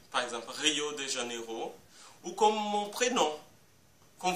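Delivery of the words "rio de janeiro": Rio de Janeiro stressed on the last "ro"; French final stress. Shown as a demonstration. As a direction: lengthen the final syllable of Janeiro. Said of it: "accentuent la dernière syllabe des mots étrangers".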